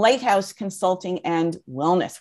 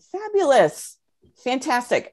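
excited; 5 semitones higher than usual. Real, not acted. Greeting attendees in chat.

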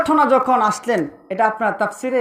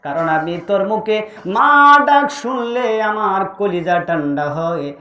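melodic, low-pitched mother's lament; acted grieving mother's plea; tearful pleading; 4 semitones lower, slower than usual. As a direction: plead in a slow chant with drawn-out endings. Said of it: "পাগলিনীর মতো কান্দে আর বলে".

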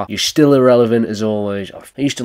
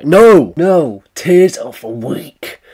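loud, higher burst of refusal; mock defiant outburst; 5 semitones higher, 7 dB louder, much slower than usual. Man fighting off happy tears, mock defiant. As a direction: shout down your own tears in mock defiance.

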